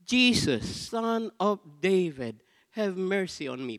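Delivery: high, loud cry for mercy; shouted plea. Retold or imitated. Blind beggar shouting to Jesus for mercy. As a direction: call out over the crowd. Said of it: "he shouted to the top of his lungs".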